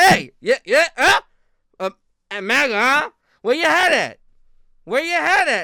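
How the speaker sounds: high, loud heckling voice; loud mocking stranger voice. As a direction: shout it like a rowdy stranger. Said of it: "They're gonna be like".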